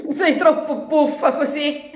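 laughing at her. Acted. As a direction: giggle through the tease. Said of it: "si mise a ridere". (lepre che ride di gusto)

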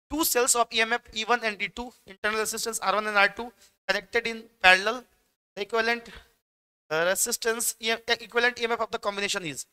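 slow, deliberate reading of an exam question; dictating slowly. Acted. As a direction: spell the question out word by word for students. Reads board question aloud.

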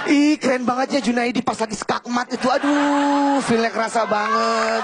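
put-on high swooning girly gush, slowing at the end; gushing girl fan. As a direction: swoon over the chess player like a fangirl. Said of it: "Coba kalau cewek nonton catur". (cewek yang kagum berlebihan, suara tinggi dan mendayu)

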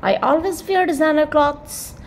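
very slow, every word separate; slow example sentence. Shown as a demonstration. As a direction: spell it out slowly for the class. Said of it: "तो आप क्या बोलोगे?".

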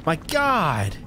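panicked high-pitched shrieks; scared horror game streamer. Real, not acted. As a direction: yelp for help in real panic. Shark appears in the water.

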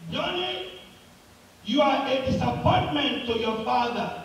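crying out loud. Acted. Boy cries out at himself, mildly acted call. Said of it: "he cried loud again and said".

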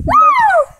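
high whoop; excited whoop. Real, not acted. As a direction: whoop with joy. Cheer in cold water.

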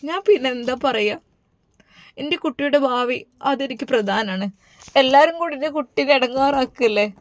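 soft, worried plea to her husband; a mother begging quietly for her child; pleading mother. Acted. (സങ്കടത്തോടെ മൃദുവായ അപേക്ഷ)

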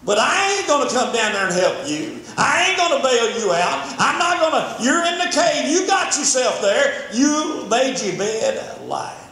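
dismissive relative, rising; half-acted family rebuke; mock scolding. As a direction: scold like an unhelpful family member. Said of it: "That's what they say".

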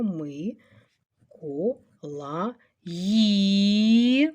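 "Ми-ко-ла-ї" very slow, long final "ї"; "Ми-ко-ла-ї" split up, last sound held; syllable by syllable. Shown as a demonstration. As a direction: dictate "Ми-ко-ла-ї" with a pause after each syllable. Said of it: "Уважно пригадуємо".

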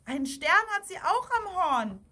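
put-on high, loud childlike exclamation; lightly voiced girl's shout; little girl calling. A narrator's reading. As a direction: call out like an excited small girl. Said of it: "rief ein kleines Mädchen".

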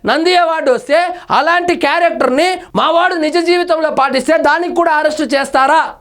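mildly imitating an indignant politician; lightly put-on outrage, as if defending a follower; mock indignant retort. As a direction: commentator mockingly voices a politician, lightly indignant. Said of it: "అనే అవకాశం కూడా ఉంది".

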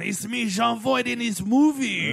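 mock Cajun-ish accent, lightly done; a hint of a fake Cajun accent; bad Voight accent. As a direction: send up a hammy movie accent. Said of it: "this accent should go to jail".

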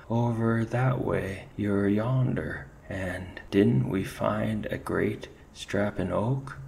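a jittery ferret pointing the way; frightened ferret. Acted. Ferret answering his commander with a nervous Irish lilt.

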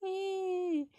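long high-pitched pretend wail; mock baby cry. Baby doll keeps crying for mother, high mock wail. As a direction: fake a baby crying on one high note.

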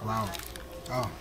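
licking fingers between words; sucking sauce off fingers. Real, not acted. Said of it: "Sorry, I'm licking my fingers".

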